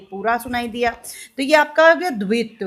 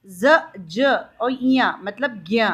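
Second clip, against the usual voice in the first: slow teaching; slower than usual. Shown as a demonstration. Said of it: "ज्ञा सुनाई दे रहा है".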